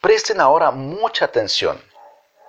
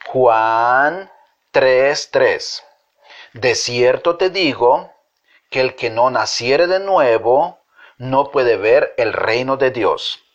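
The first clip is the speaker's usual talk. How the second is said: slow, measured verse recital; group recitation; slower than usual. Shown as a demonstration. Teacher leading children in reciting the verse slowly. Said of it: "vamos a repetir el versículo".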